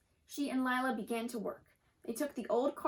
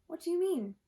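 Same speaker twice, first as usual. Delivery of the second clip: higher, curious and eager; eager question; 6 semitones higher, 3 dB louder than usual. A narrator's reading. Girl asks her friend about a new idea, eager. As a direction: lean in, hungry to know more. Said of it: "leaning forward eagerly".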